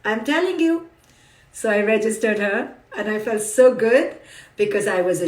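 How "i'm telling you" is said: daughter voice. Retold or imitated. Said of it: "She's like".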